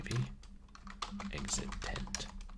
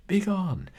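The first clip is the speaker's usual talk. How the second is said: higher, louder shout of begone; angry shout; 8 semitones higher, 10 dB louder than usual. Acted. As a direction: shout them off the doorstep. Huge woman drives player away.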